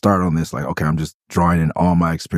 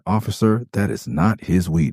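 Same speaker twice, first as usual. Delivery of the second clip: Roland's voice; 3 semitones higher than usual. Retold or imitated. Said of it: "I tried to do Roland's voice".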